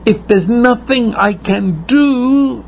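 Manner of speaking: high, despairing plea; high pleading cry. Retold or imitated. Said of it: "You say".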